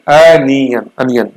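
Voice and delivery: "अनियन" first stretched out, then said normally; correct pronunciation drilled. Shown as a demonstration. Teacher drilling the correct onion, uh-sound pronunciation. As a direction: model "अनियन" with an opening uh, emphatic then relaxed. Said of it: "ऑनियन नहीं, अनियन".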